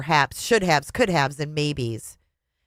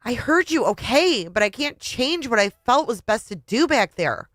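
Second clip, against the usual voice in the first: pushing back; 6 semitones higher than usual. Acted. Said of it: "I was definitely pushing back now".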